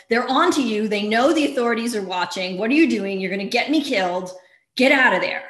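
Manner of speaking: urgent, frantic warning down the phone; panicked plea. Retold or imitated. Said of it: "and she's panicked".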